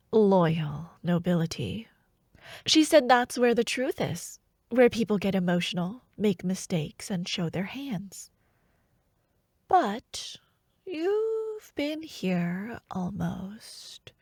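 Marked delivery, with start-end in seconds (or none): 0.1-1.9 whisper. Acted. Mocking whisper. 7.1-14.1 whisper. Acted. Hushed slow confidences.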